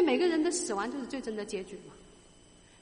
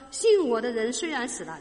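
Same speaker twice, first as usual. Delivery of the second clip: 信我的人 read out much louder, 信 stressed with a falling tone; 信 stressed and falling, the whole line proclaimed louder; emphatic louder reading; 7 dB louder than usual. Shown as a demonstration. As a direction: proclaim the verse, leaning on 信. Rereads the verse for emphasis.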